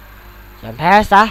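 slow, heavy, dragged-out give up; drawn-out surrender demand. Acted. Villain to human, dragging out the command slowly. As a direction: stretch every syllable like a threat.

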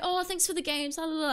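lilting high mock thanks; sing-song mock politeness. Teammates switching to fake sweetness, sing-song. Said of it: "it was like".

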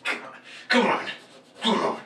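a light, half-whispered Azrael growl; Azrael impression. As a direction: quote Azrael in a breathy, taunting hush. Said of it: "That's my favorite Azrael line".

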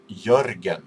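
Jörgen said with an initial Y sound, as YUR-gen; native pronunciation of Jörgen. Shown as a demonstration. Vlogger teaching viewers Jörgen in their own language, native Y pronunciation. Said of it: "in my language i-, is, uh, pronounced".

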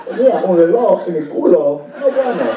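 lightly voiced Walken speaking Spanish; a hint of Walken's odd phrasing, in Spanish; Christopher Walken in Spanish. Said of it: "this is Christopher Walken".

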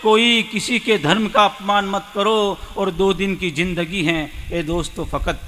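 ghazal lifted at first, then settling; poem recitation. Acted. Poet counselling friends on a short life, reciting.

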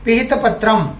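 पिहितपत्रम as one word, ending in "-tram"; model pronunciation. Shown as a demonstration. Teacher shows pupils how to repeat, पिहितपत्रम as one word. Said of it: "मी कसे म्हणतोय ते बघा".

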